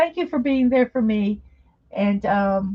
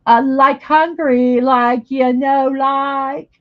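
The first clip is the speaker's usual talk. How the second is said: put-on Valley Girl accent; 3 semitones higher, 6 dB louder, slower than usual. Valley Girl talk about Hungry.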